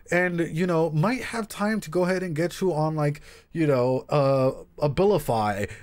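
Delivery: imitating a stiff clinical therapist, slow and measured; mock a pompous therapist reading off a diagnosis; jargon-heavy therapist. To a client, mocking a therapist's slow clinical jargon. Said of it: "and they're like".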